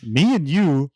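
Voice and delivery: slow, drawn-out matey line; slow buddy tone. Retold or imitated. To the gamer kid, a slow, lightly mock buddy tone. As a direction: stretch it out like a fake best friend. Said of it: "And I'm like".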